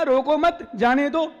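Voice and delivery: "रोको मत", a small break, then "जाने दो"; word by word. Retold or imitated. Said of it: "एक एक शब्द सुना, एक एक शब्द ध्यान से".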